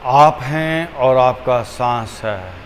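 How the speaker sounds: unhurried, measured, leaving room for each breath; guided meditation. Acted. Teacher guiding listeners to watch the breath, calm meditation voice.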